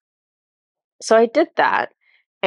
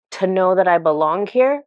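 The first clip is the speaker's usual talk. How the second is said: mildly defiant retold challenge; retold bitter retort, rising at the end; angry, defiant. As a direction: throw the question back with a touch of anger. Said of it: "angry and defiant with her".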